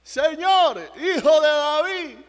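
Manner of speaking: loud, high shout for help from behind; high, urgent shout; crying out. Acted. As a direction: call out desperately over a crowd, drawing out the end. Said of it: "Está gritando".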